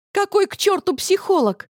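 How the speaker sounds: резко выше и громче, срываясь; повысь тон, не сдерживаясь; на повышенных тонах. A narrator's reading. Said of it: "на повышенных тонах спросила я". (дочь огрызается на мать на повышенных тонах)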